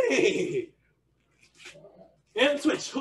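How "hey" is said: wavering whinny; horse neigh. Shown as a demonstration. Coach calling animal sounds for stretch kicks, horse neigh. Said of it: "only doing animal sounds".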